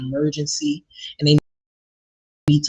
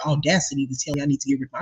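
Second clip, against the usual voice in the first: ordinary talk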